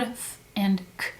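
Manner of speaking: f and k said as quiet isolated sounds; soft phoneme sounds for f and k; first sounds. Shown as a demonstration. Teacher models the first sounds for the kids, softly. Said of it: "they would say the first sound".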